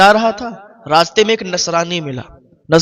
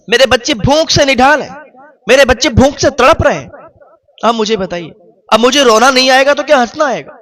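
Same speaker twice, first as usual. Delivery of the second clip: anguished plea; 5 semitones higher than usual. Acted. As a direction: pour out the poor man's grief. Poor man weeps to the Christian.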